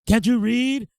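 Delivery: high, loud mock Asian accent; scolding in a put-on Asian accent; imitated Asian accent. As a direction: imitate a pissed store owner with an Asian accent. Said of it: "he has an Asian accent".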